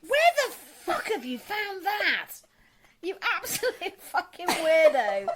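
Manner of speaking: slow, laughing mock outrage; laughing disbelief; drawn-out laughing insult. Real, not acted.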